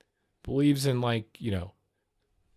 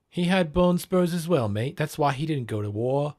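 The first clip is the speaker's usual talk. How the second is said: mock British accent; 4 semitones higher than usual. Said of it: "overemphasize when you're talking British".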